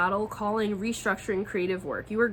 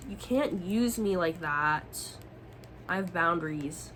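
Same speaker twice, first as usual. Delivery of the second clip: sharp retold no; 2 semitones lower, 4 dB louder, slower than usual. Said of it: "And I'm like".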